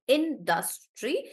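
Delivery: "Industry" slowly as in-dus-try; syllable by syllable. Shown as a demonstration. Teacher showing Anjali how it's done, syllable by syllable. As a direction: sound out all three beats of "Industry". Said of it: "That's how he's done it".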